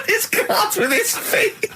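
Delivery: high, slow squeal through real laughter; helpless laughter. Real, not acted. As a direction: barely get it out for laughing. Cracks up at the absurd story.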